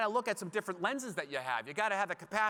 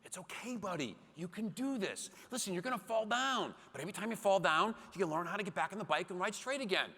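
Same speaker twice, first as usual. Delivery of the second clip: reassuring dad; 3 semitones higher than usual. Retold or imitated. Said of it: "I convince him".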